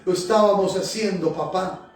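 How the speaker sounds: prayer with repeated Señor; fervent prayer. Acted. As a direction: pour it out to God, pleading, line after line. Pastor leads a fervent prayer.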